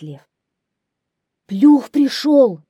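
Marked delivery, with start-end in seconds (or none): 1.5-2.6 high, loud, drawn-out hare cry; hares shouting in chorus. A narrator's reading. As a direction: cry out like panicked little hares. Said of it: "кричат хором зайцы". (зайцы кричат хором, высоко и протяжно)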